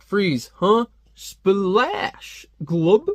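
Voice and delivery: spray him and gurgle; mock hose ambush. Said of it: "he's like".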